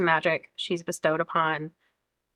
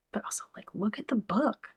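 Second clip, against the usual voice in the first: soft, breathy whisper aside; hushed aside about the book; 2 semitones higher, 8 dB quieter than usual. Real, not acted. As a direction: whisper it like a secret.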